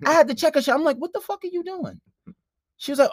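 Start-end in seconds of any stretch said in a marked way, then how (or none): 1.0-2.0 shocked protest. Retold or imitated. Acting out protest after being slapped.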